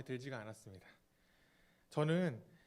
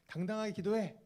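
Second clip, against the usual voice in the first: mild exhorting call, pitched higher; retold shout; 4 semitones higher than usual. Prayer leader telling youths to pray confidently, retold mild shout. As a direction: urge them on in a slightly raised, higher voice. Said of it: "이렇게 외치셨습니다".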